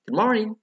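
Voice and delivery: "Good morning" loud, soaring on morning and falling; exaggerated model "Good morning", high peak on morning; intonation drill. Shown as a demonstration. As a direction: push "morning" high and let it drop. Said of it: "ada pronunciation and intonation".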